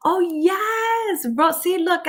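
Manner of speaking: high whispered oh, yes. Real, not acted. Whispering to the chat, delighted by a comment.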